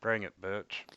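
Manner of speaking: words dropping out over a bad mic; cutting out. Real, not acted. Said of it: "You'll have to speak up, we didn't hear that".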